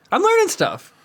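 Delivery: high bright sing-song boast; excited. Real, not acted. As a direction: squeal it proudly.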